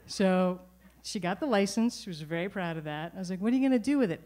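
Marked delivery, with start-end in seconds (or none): 3.4-4.2 exasperated. Retold or imitated. Speaker quizzing proud mother.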